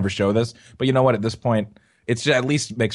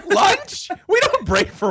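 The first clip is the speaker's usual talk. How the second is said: harsh barking commands, high and louder; slave driver barking; 5 dB louder, much slower than usual. Pretend. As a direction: bark orders like a tyrant boss. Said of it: "you sound like a goddamn slave driver".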